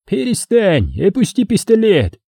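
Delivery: high-pitched command; high, insistent command; urgent order. A narrator's reading. Commander orders gunman to stop.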